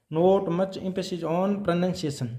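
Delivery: very slow, words spaced apart; slow dictation. Shown as a demonstration. Teacher dictating a heading to the class, slow. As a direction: read it out so students can copy. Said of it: "teacher dictating a principle".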